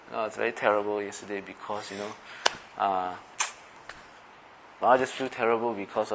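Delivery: confiding hurt. Pretend. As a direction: admit the hurt quietly. Sharing heart about scolding.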